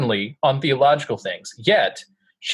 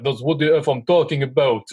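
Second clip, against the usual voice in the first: put-on Russian accent. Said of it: "'cause he had that awesome Russian accent".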